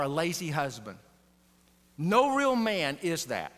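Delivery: slow, weighty pulpit emphasis; emphatic preaching. Acted. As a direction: drive each phrase home to the congregation. Pastor's emphatic point.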